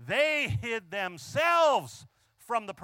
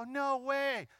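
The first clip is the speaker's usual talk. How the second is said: mock disbelief; 6 semitones higher than usual. People disbelieving she is his wife.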